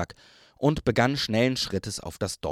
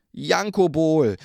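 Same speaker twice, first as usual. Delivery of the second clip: mock scolding; 5 semitones higher, 5 dB louder, slower than usual. A narrator's reading. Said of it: "versuchte Rosi zu tadeln".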